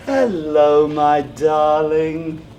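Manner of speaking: slow, sugary hello to a sweetheart; tender greeting. Acted. Man greeting his girlfriend on the phone, slow sugary coo. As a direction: coo it down the line, drawn out. Answering Susan's call tenderly.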